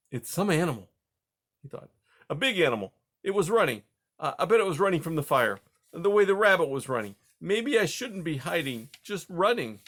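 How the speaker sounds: high, fast, frightened little voice; scared young mouse. Acted. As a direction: gabble it out, scared of the fire. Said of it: "Spruce was afraid to move".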